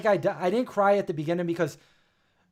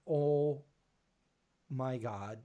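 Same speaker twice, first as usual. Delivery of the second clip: mild pleading; 2 semitones lower, 5 dB quieter than usual. Retold or imitated. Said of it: "I'm like".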